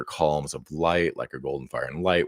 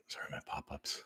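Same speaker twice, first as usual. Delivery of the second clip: whisper; 21 dB quieter, faster than usual. Real, not acted. Aside while fixing the screen.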